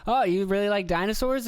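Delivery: imitated friendly museum guy. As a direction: act out talking to an excited kid. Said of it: "he was like".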